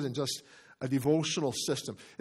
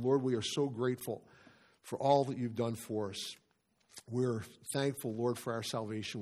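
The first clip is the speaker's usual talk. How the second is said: softer, subdued prayer voice; 3 semitones lower, 3 dB quieter than usual. Real, not acted. Pastor leading the congregation in thanks to the Lord, prayer. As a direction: pray aloud, quietly and sincerely.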